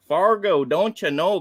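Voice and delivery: hammed-up Upper Midwest accent, just a hint; playful half-hearted Minnesota twang; mock Fargo accent. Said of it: "That was the best accent I got for this".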